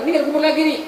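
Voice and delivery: voicing an impatient mourner; a hint of a mourner calling out; mourner's voice.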